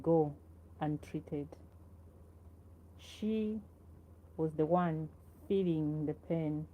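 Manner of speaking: measured poetry recital with long pauses between phrases; poem reading. Acted. Poet reads to viewers about grandmother carrying her, measured recital. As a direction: read it line by line, letting each phrase settle.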